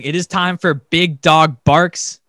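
loud, drawn-out segment intro; segment announcer. Pretend. Podcast host kicks off the ranting segment, hyped announcer. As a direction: announce the segment big and slow.

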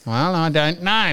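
slow, lightly mimicked clerk; Byron. Clerk answers the caller's outburst, slow mock helplessness. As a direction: draw it out as a hapless operator. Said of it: "Wait for this".

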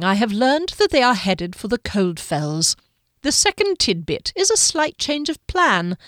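lightly voiced pale lieutenant, toying cheerfully; a hint of a mocking, cheerful schemer; genial sinister lieutenant. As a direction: savour the news like a cat with a mouse. Golgothar voiced through the scene.

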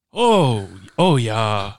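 attempted English accent on a drawn-out "oh". Shown as a demonstration. Host showing the only accent they can do, English accent. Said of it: "the only accent I can do is English".

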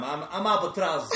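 laughing. Real, not acted. Introducing self while laughing.

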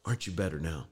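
gentle comfort. Retold or imitated. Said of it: "heals it up and says".

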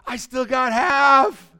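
mock-delighted shout, high and fast; upbeat optimist. Preacher acting the half-full people, elated shout. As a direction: crow it loud, high and quick. Contrasting two outlooks on same glass.

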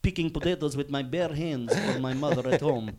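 accent drifting from Irish to Balkan, high at first; accent sliding into Polish. Shown as a demonstration. Co-host showing how their accents drift, sliding into Polish. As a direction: start high, end in a mock Eastern European accent. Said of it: "all my accents end up then in fucking Polish".

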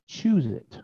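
soft, restrained urging; hushed command. Acted. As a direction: say it quietly, as God prompting. God's command voiced, first take.

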